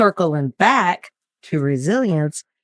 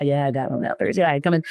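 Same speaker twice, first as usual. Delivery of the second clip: quicker, softer offhand client; client's reply voiced; 3 semitones lower, 4 dB quieter, faster than usual. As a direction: brush it off like the client.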